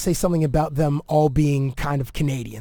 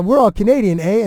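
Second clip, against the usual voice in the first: light mock Canadian accent, higher; 5 semitones higher, 5 dB louder than usual. Retelling Zach's bit in a light Canadian accent. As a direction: lean on the eh like a Canadian. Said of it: "Zach does this scene in Canadian".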